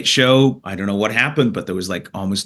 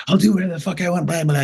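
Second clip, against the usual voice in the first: snotty heckler voice, pitched higher; drunk heckler; 7 semitones higher, faster than usual. Retold or imitated. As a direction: mimic a drunk heckler sneering back at the comic. Heckler shouting back at comedian.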